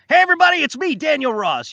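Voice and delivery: high, loud showy announcement; big promo greeting. Shown as a demonstration. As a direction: hail the whole audience like a hyped host. Performs requested promotional shout-out.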